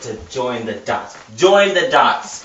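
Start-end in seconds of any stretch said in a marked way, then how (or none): 1.4-2.4 mock-quoting the odd British phrase; mocking repeat. Shown as a demonstration. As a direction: Join the dots, slow, louder, laughing in disbelief. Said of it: "Instead of connect the dots".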